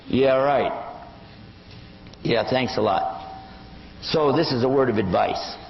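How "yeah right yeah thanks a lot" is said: dry mock thanks; sarcastic dismissal. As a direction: brush off the pretender with sarcasm. Acted dismissal of a fake convert.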